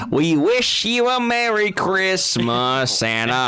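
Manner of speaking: sung in a put-on British accent; Cockney accent, slow sing-song; British carolers. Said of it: "they sounded all British".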